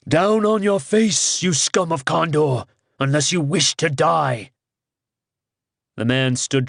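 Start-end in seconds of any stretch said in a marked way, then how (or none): 0.1-4.5 ringing tones. Acted. Kars posing as Rhiannon orders the guard down, ringing and commanding. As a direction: lord it over the guard like a deity. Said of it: "in the ringing tones".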